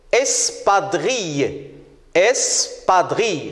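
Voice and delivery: espadrille slowly, slight breaks as es-pa-drille; syllable by syllable. Shown as a demonstration. Teacher sounding out a word for pupils, espadrille in slow syllables. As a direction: draw out espadrille in measured syllables. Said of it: "On va taper les syllabes".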